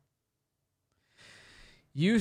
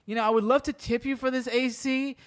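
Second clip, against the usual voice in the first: flirty customer voice; 7 semitones higher than usual. Retold or imitated. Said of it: "he's thinking".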